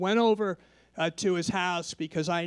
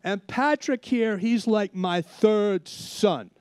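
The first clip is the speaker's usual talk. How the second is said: proud neighbor introducing; 4 semitones higher, 4 dB louder, slower than usual. Retold or imitated. Friend introducing him proudly.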